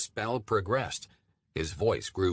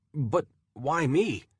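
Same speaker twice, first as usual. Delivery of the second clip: pleading; 7 semitones higher, 4 dB louder, slower than usual. Acted. Pleading question to Courage.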